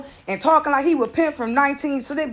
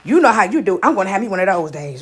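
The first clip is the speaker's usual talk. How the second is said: a lower, quick imitation of dad; dad's voice lightly imitated; 5 semitones lower than usual. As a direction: toss it off like a laid-back dad. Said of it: "he like".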